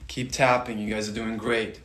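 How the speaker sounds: soft, calm guiding voice; soothing meditation guide; guided meditation. Acted. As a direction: lead them gently through the tapping. Guided tapping session voice.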